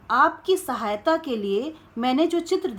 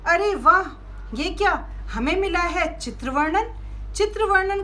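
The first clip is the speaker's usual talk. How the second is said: delighted surprise; 4 semitones higher than usual. Acted. Box opens for children.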